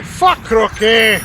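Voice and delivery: ranting Scotsman. Retold or imitated. Scotsman describing his cruel golf course, ranting. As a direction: rant about the course like a mock Scot. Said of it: "a riff on, like, Robin Williams' Origin of Golf".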